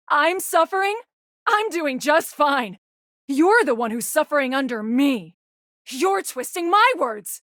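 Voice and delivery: high-pitched, indignant denial; defensive arguing. Acted. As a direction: push back hard, voice jumping up. Character defensively argues with the player.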